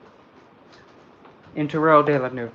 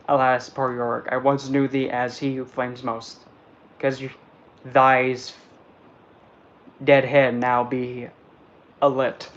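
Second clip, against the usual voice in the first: mild Shakespeare recitation. Acted. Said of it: "That actually sounded pretty good".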